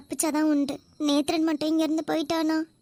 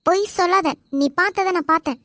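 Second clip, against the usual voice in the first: loud urgent insistence; 5 dB louder, faster than usual. Acted. Captive urging searcher to look.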